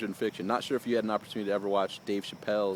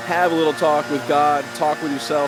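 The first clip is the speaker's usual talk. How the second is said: louder, higher, raised over the lawn mowers; real raised voice over yard noise; talking over noise; 4 semitones higher, 7 dB louder than usual. Real, not acted. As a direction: project over the background racket. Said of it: "break away from the noise, which we have here".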